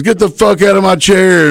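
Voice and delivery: high, barking command; angry order. Retold or imitated. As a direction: order him out of the chair with a high yell. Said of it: "he goes".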